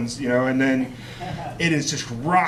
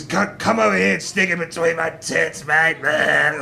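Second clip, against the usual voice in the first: put-on drunk bar friend. Acting drunk friend Luke in drag.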